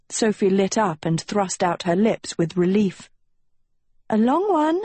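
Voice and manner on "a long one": high dreamy sigh. Acted. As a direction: breathe it out longingly. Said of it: "she sighed".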